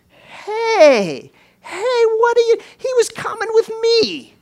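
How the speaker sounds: very high, loud, indignant shouting; outraged father. Acted. Preacher as sick girl's father, outraged high shouting. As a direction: cry out in acted protest at being cut off. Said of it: "Can you imagine the mind of Jairus, this father".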